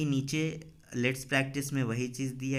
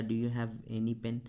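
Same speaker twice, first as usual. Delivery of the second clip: "Do you have any pen?" said very slowly, word by word; slow teacher dictation; 2 semitones lower, much slower than usual. Shown as a demonstration. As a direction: spell it out slowly for the class. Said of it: "या".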